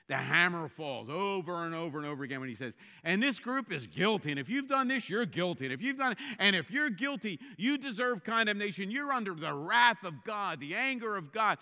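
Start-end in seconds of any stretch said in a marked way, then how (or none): 3.0-11.6 louder, pounding each guilty verdict; hammering condemnation. Retold or imitated. Preacher voicing Paul's verdict, loud and pounding. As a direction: hammer it home like a judge.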